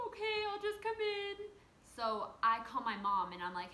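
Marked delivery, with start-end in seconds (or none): 0.1-1.4 tearful giving in. Retold or imitated. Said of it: "And so I was like".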